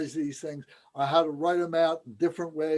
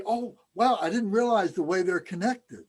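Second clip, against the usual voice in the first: amazed realization; 4 semitones higher than usual. Retold or imitated. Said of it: "we say".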